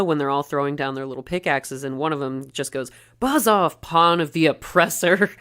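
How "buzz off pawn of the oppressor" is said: raised, punchy rebel retort; lightly acted defiant dismissal; mock defiance. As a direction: imitate a worker telling off the boss. Retold worker defies the manager.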